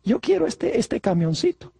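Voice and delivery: soft little-child pleading, lightly voiced; baby talk. Preacher voicing Juanito asking mom for a toy truck in soft baby talk. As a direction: coo it like a toddler asking for a toy. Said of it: "su idioma así de bebé le dice".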